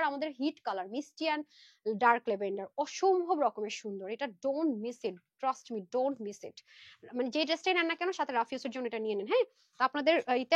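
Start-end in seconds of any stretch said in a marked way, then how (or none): 4.1-6.6 urgent plea. Real, not acted. Urging viewers not to miss.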